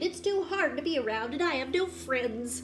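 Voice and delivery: put-on a touch of a sad young porcupine; wistful Elmore. Elmore telling his uncle his troubles, wistful. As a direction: sigh it out like a lonely kid.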